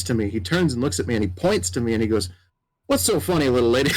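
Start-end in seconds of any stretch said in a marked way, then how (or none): 2.9-4.0 lightly voiced cowboy calling out a little lady; mild mock cowboy, amused. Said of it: "very much cowboy sounding".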